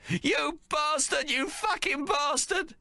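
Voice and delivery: slow, high furious cursing; yelling. Acted. Mary cursing the wild man, slow high furious yell. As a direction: spit each curse out slowly, pitched high. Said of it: "Mama is still yelling at him".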